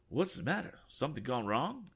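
put-on high, alarmed old-gent question; startled question. Passenger asking Tom what's wrong, high and alarmed. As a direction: ask it in sudden alarm.

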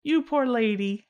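drawn-out, pitying aw; mock sympathy. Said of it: "I just love that he was like".

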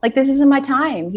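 very high, frantic pleading. Retold or imitated. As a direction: cry it out high and desperate. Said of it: "I had this franticness about me".

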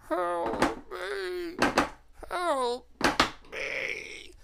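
high, tearful cry for help fading away; a prisoner in an iron maiden begging; high sobbing plea trailing off; crying captive. Acted. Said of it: "from inside one of those you hear".

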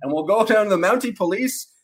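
put-on a jokey Canadian accent sprinkled with "eh"; hammed-up Canadian accent. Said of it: "going back into my horrible Canadian accent".

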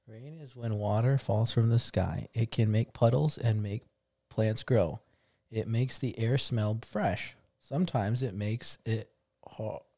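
slow halting read-aloud; slow careful reading. Shown as a demonstration. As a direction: read it slowly, word by word. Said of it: "this is what it says".

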